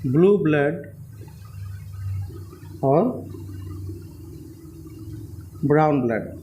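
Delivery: each word spaced out slowly; slow dictation of a tongue twister. Shown as a demonstration. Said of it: "second point है".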